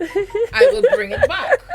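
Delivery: high, loud, slow mock promise; mock protesting apology. Co-host jokingly promising to return it, loud mock protest. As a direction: belt it out slowly, playing at apology.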